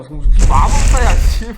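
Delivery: shouted in laughing disbelief; loud exclamation. Real, not acted. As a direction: blurt it out loudly. Exasperated at the flood of messages. (어이없어서 크게 외치듯)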